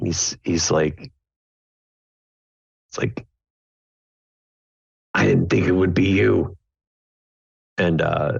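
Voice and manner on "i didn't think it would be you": enigmatic, veiled, mysterious delivery. Voicing Seamus meeting someone he expected: cryptic. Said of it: "says that rather cryptically".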